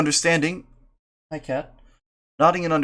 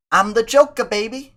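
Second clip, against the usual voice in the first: Joker voice; 8 semitones higher, 4 dB louder than usual. Acted. Voicing Joker in read story.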